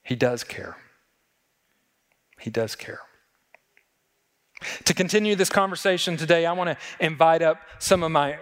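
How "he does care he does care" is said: tender reassurance. Real, not acted. Tender reassurance closing sermon.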